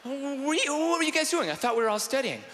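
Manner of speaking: put-on high, coy girl asking. Girl asking what the others were doing, high coy. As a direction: act innocent and surprised. Girls in dorm scene.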